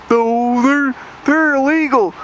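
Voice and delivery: high whiny redneck parody; mock panicky redneck. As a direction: whine it like a scared hillbilly. Mocking anti-immigrant rednecks.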